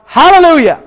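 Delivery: high-pitched shouted command; storyteller's shout. Retold or imitated. Rider sets his sled dogs off, high acted shout. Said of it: "he shouts out really loud".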